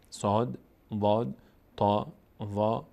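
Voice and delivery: "صاد، واد، تا، وا" slow and drawn out; letter recitation. Shown as a demonstration. Teacher listing the eight letters, slow careful recitation. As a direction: stretch each letter name in "صاد، واد، تا، وا".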